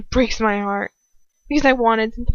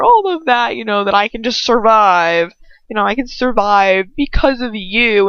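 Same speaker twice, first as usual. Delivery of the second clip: sarcastic mock martyr voice; hammed-up mock suffering; mocking Hermione. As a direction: mimic her as a dramatic victim. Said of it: "she's trying to make it seem like".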